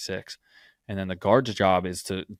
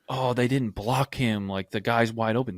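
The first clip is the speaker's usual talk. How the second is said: mock outcry; 3 semitones higher, 3 dB louder than usual. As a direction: imitate a crowd's outcry without really screaming. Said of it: "everyone's screaming like".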